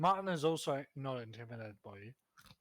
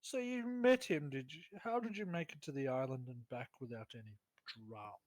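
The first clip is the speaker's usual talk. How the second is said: scornful lord. Acted. The lord mocks the party for coming back, haughty scoff. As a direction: scoff at them like a haughty noble. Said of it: "And Lord Basilva goes".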